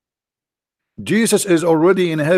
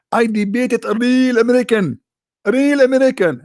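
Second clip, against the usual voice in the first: higher, louder mimic of the sheikh; mocking the sheikh; 9 semitones higher, 3 dB louder than usual. Host mimics sheikh's real American boast, higher and louder. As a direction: push it up high and pompous. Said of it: "He said that to me".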